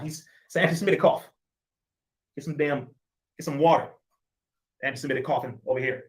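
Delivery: dry mock accusation, tongue in cheek; mock outrage over a cough; sarcastic. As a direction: say it sarcastically, rolling your eyes at the charge. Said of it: "I'm being sarcastic on that".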